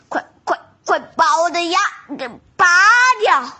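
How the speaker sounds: fast, panicked begging; urgent pleading. Acted. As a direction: rush it out in pain. Tiger in toothache pain.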